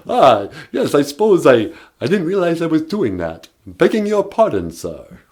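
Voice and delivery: lightly voiced vampire, sheepish and polite; a hint of the Count begging pardon; mild mock Count accent. Count voice apologizing.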